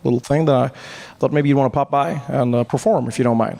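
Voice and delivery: lightly voiced Obama inviting Trevor to perform; Obama, casual invite. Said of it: "and he said".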